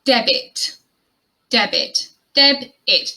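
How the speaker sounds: "debit" as DEB-it; short i in the second syllable of "debit"; careful model pronunciation. Shown as a demonstration. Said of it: "the I sound there in the second syllable".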